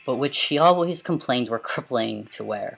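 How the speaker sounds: dramatic storybook reading; story narration. A narrator's reading. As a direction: read it like a novel aloud. Reads a story aloud.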